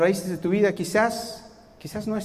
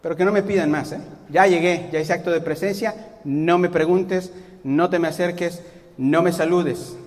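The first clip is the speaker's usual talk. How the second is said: grudging sulky resignation. Pretend. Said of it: "Me conformo".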